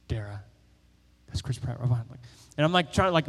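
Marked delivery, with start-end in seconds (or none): 0.1-2.2 hushed whisper to his companion; retold whisper. To his companion in line, a hushed whisper. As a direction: whisper so the celebrity won't hear. Whispering about celebrity behind him.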